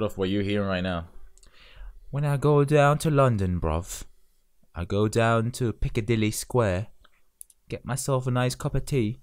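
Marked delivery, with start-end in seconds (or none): 2.1-9.2 a mild mock cockney, casual and jokey; exaggerated British accent. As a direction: play a cheeky Londoner, mock British accent. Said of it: "This is me exaggerating the accent".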